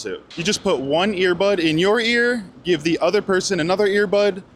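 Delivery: measured, scripted presenter delivery; sponsor read. Real, not acted. Vlogger introduces translation earbuds sponsor to viewers, ad read. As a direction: smoothly pitch the product to viewers. Host reads sponsor segment.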